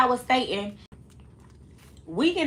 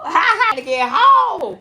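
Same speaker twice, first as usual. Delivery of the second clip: laughing; 10 semitones higher, 9 dB louder, slower than usual. Real, not acted. Laughing retelling her choking.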